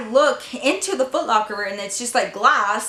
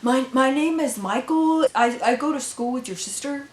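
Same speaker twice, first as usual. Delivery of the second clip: nervous stammer. Retold or imitated. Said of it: "Who the fuck are you".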